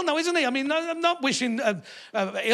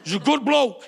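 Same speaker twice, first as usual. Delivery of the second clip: southern Boris fan. Retold or imitated. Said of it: "they go".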